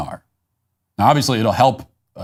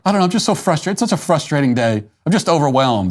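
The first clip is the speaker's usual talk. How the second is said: high, whiny mock-crying voice, easing down as it goes; mock teary man; 5 semitones higher than usual. Imagined man asked what's wrong, mock whiny crying. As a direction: play a grown man falling apart over a bad day, hammed-up. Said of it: "and he's crying".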